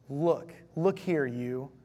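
slow, pointed, frustrated jab; accusing and angry. Acted. Elder son confronts his father, slow accusing anger. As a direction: drag out each look like a finger in his face. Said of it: "Accusing, angry, frustrated".

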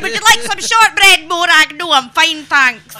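high, loud plummy English-style voice; put-on posh accent. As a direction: play the twee Edinburgh festival accent. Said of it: "we all pretend to speak like this".

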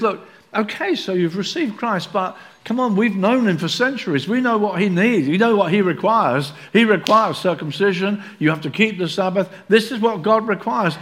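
lightly voiced pushy insiders; coaxing them to follow rules; voicing the Judaizers.

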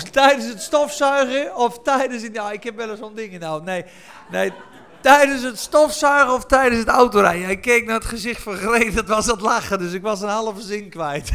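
loud, amused explanation over laughter; amused outburst. Real, not acted. Preacher explains losing his sentence to the congregation, loudly amused. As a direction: raise your voice through the amusement.

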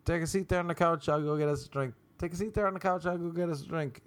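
high, light, easygoing invitation; airy imitation of himself hosting; casual host offer. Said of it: "That's what I think I was saying".

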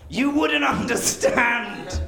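mock tortured. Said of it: "he sounds really tortured".

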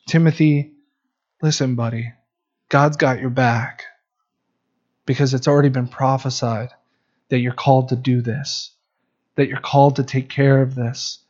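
quiet, fatherly pep talk; tender fatherly encouragement. Retold or imitated. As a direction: speak like a father comforting his son. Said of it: "What tenderness we see from a spiritual father".

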